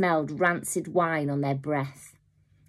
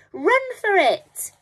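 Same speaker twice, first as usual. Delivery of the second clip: panicked shout; 6 dB louder, slower than usual. A narrator's reading. Robber fleeing in terror.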